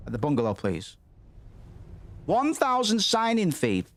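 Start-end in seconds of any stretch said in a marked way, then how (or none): 2.2-3.8 high, slow disbelieving squeal; shocked squeak. Real, not acted. Gamer reading the signing fee, shocked squeal.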